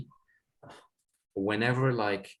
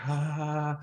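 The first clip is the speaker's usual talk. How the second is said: mock scream; 6 semitones higher than usual. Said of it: "like, screaming".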